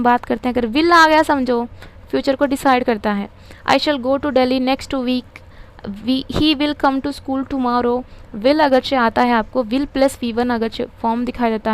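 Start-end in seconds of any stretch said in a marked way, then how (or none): 3.7-8.0 slow dictation. Shown as a demonstration. Teacher dictating example sentences.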